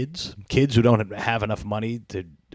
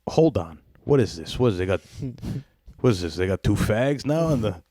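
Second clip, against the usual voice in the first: hammed-up outraged dad, higher and louder; mock outraged dad; 5 semitones higher, 3 dB louder than usual. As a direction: play a father exploding at the TV. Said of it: "I'm just imagining him".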